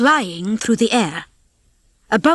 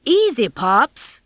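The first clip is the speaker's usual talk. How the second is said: smug; 3 semitones higher, much slower than usual. Acted. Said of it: "Rocky smirked".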